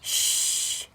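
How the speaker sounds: whispered shush; breathy toddler's shh; baby's shush. Acted. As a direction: hush everyone like a small baby. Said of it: "said the baby".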